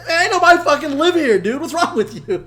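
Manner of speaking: high, loud, exasperated holler; yelling. Retold or imitated. Telling his cousin the trailer is empty, yelling. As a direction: yell it down the road at him. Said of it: "just yelling at him".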